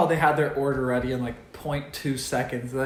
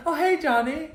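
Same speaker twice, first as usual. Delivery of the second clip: high-pitched imitation of a greeting barista; high, hammed-up hello; mock friendly greeting; 12 semitones higher than usual. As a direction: greet a regular in a put-on high voice. Mimics a barista greeting Johnny.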